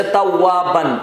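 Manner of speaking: توابن read slowly with long aa and sounded final n; drawn-out qaida reading of توابن; recited example word. Shown as a demonstration. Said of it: "وہاں پر نون موجود ہیں".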